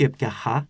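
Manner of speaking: έπια χα with a rasped Greek χ; Greek chi, rejected. Shown as a demonstration. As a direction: scrape the χ of έπια χα. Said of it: "Όχι το χου, το ελληνικό". (έπια χα με δυνατό ελληνικό χι)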